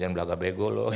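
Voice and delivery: God playfully scolding him; mock God scolding. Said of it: "Tuhan ngomong sama saya". (Tuhan menegur sambil bercanda, lebih keras)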